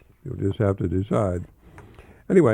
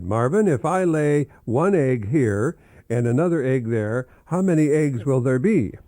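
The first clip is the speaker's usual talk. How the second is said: teacher voice; 4 semitones higher, 4 dB louder than usual. Acted. Teacher quizzing Marvin in joke.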